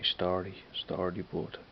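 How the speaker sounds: "Story" clipped down from "What's the story"; "Story bud" as a short Dublin hello; shortened Dublin greeting. Shown as a demonstration. Showing viewers the shortened Dublin greeting, Dublin accent. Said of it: "I usually shorten it down to say".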